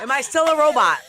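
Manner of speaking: high, loud laughing question. Real, not acted. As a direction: ask it while still laughing. Laughing after robot glitch.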